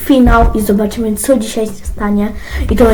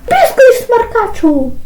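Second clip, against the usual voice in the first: angry scold; 9 semitones higher, slower than usual. Acted. Mother scolds talking back.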